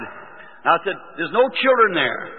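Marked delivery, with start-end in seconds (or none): 1.1-2.3 lightly reenacted sermon, raised cadence; preaching. Young preacher describes hell to the crowd, preaching. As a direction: declaim each line with a falling refrain. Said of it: "I got to preaching".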